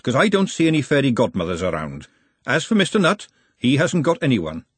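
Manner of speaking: lightly voiced no-nonsense matchmaker; brisk, bossy Glenda. Glenda tells the couple to sort themselves out, brisk.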